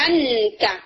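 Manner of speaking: انتا with the n fully pronounced; clear n demo. Shown as a demonstration. Teacher showing the wrong izhar reading, plain n. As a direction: say انتا with no hidden nasal. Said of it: "اگر ایسے پڑھا جائے تو پھر نون کو ظاہر".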